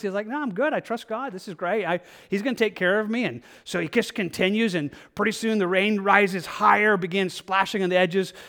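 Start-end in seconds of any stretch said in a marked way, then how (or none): 0.3-3.2 breezy carefree refusal. Acted. Stubborn man shrugs off fleeing neighbors, carefree and softer. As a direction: brush off the warning, all smiles.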